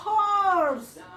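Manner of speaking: put-on teacher calling out Horse for kids; loud teaching demo. Shown as a demonstration. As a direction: announce Horse brightly to the class. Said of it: "Caballo en inglés se dice".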